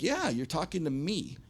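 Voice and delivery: retold firm answer, falling at the end; matter-of-fact confirmation. Front man answers the doubting owner, confirming.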